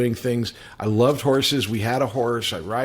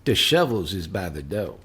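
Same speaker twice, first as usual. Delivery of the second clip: lightly mimicked line reading, low and muttered; understated imitation of an actor's odd line; Michael Landon; 7 semitones lower, 3 dB quieter than usual. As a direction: deliver it as a low, deadpan quoted aside. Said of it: "line and line reading by Michael Landon".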